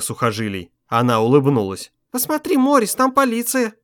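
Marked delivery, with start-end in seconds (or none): 2.1-3.7 much higher, eerily bright call; dazed excitement. A narrator's reading. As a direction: point it out in glassy delight. Dazed wife spots police.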